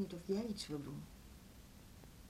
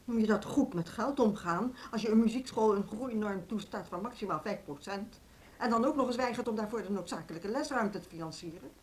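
insistent, somewhat raised indignation; indignant protest; 4 dB louder than usual. Acted. Music school head protesting tight funding, indignant. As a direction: push back indignantly against the excuse. Verontwaardigd over zuinige wethouder.

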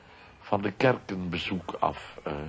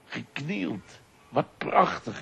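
put-on higher, excited little-boy voice; quoting his son; 10 semitones higher, slower than usual. Son marvels at two stone angels, lightly childlike and higher. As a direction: lightly play the boy's delight. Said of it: "keek naar de twee engelen en zei".

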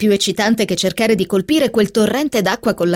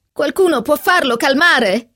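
raised, higher-pitched appeal for help; exasperated plea; 6 semitones higher than usual. A narrator's reading. Narrator begs someone to calm the rampaging kitten, exasperated plea. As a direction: call out, fed up with the chaos.

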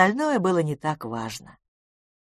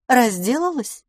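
casual; 7 semitones higher, 3 dB louder than usual. Acted. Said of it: "сказала она небрежно".

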